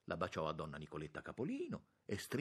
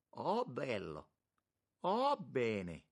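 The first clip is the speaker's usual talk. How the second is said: high, loud admiring monsignor; effusive, drawn-out exclamations; delighted exclaiming; 6 semitones higher, 5 dB louder, much slower than usual. A narrator's reading. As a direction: gush loudly over the view.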